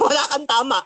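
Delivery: "Wala kang tama" echoed through a laugh; laughing repeat. Shown as a demonstration. Preacher mocking his rival's words, laughing.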